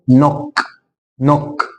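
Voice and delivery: نوك starting on n, k only at the end; silent K. Shown as a demonstration. Teacher modelling the word for students, silent K. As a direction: say نوك with no opening k. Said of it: "الكي مش هيتنطق".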